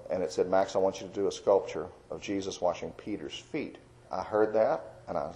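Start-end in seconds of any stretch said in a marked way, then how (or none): 0.5-3.8 still small voice. Retold or imitated. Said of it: "He spoke in a still small voice".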